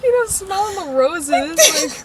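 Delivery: retold quip with slow, singsong delivery; cheeky comeback. Kid in the trash can answers rescuer, cheeky.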